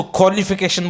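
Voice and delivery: क्वालिफिकेशन as "kholification"; KH pronunciation. Shown as a demonstration. Teacher showing own way, क्वालिफिकेशन with airy "kho". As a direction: blend a little KH into the start of क्वालिफिकेशन. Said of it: "का के अंदर थोड़ा सा ख".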